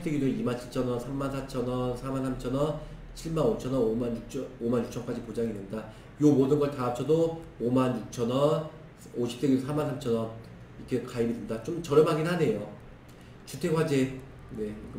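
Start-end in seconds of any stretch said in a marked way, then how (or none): none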